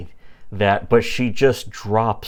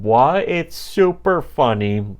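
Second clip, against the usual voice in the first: pitched-up, half-hearted crowd yell; mock yell; 5 semitones higher than usual. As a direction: imitate everyone yelling at a mild volume. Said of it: "everyone's just yelling".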